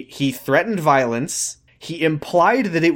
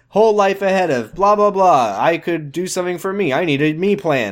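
mock Amy voice; 5 semitones higher than usual. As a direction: parody her as a whiny teen. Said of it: "She's like".

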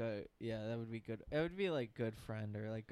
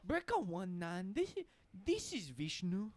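put-on Indian accent; 7 semitones higher than usual. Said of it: "I can't do an Indian accent".

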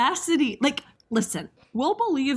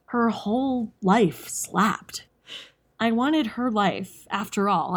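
slow storytelling; 4 semitones lower than usual. Shown as a demonstration. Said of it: "some directions that came with this one".

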